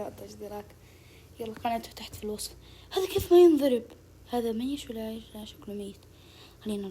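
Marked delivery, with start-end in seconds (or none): 0.0-0.7 imitating the player. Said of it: "هذا هو يقول".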